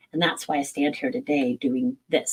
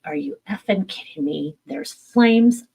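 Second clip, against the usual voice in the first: retold anger; 3 semitones higher, 6 dB louder than usual. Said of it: "and I was pissed".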